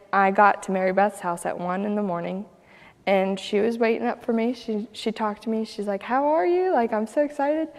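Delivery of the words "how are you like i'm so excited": much higher, eager hello; bubbling over with welcome; excited welcome. Retold or imitated. Mary Beth greets late-night guest, excited.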